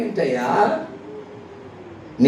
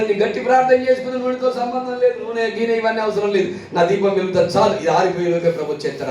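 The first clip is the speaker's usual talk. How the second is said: quick, higher, self-assured inner voice; a lightly voiced careless woman, brushing off the need for oil; smug foolish virgin; 4 semitones higher, faster than usual. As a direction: breeze through it like nothing can go wrong. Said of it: "అనుకోని".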